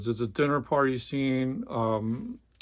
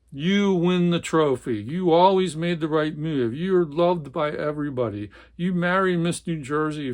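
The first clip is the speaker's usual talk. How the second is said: louder and higher, scornful; scornful tirade; 4 semitones higher, 3 dB louder than usual. Acted. Jerry taunting the Swede, scornful tirade. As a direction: hammer him with his charmed life. Jerry mocking his brother.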